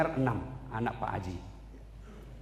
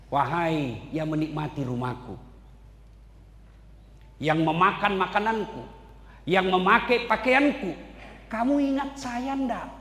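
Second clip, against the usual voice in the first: dead mother calling out; 4 semitones higher than usual. Acted. Dead mother voiced calling family.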